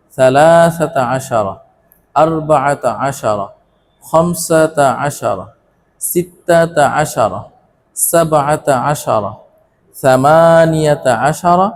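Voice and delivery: slow Arabic counting chant with stretched long vowels; deliberate, evenly paced teacher's recitation; repeat-after-me modelling. Shown as a demonstration. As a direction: draw out each compound number for learners to echo. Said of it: "আরেকবার".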